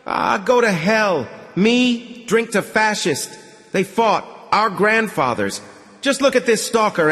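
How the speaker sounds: put-on toast the stalker like a rowdy drunk; rowdy drunk patron.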